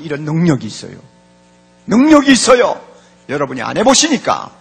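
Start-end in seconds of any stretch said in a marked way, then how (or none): 1.9-2.8 loud, higher-pitched proclamation; emphatic repeat. Real, not acted. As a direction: drive the claim home at full voice.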